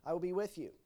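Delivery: repeated reassurance, first with a slight lift; reassuring promise. Acted. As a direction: promise it twice, calmly. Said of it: "And God says".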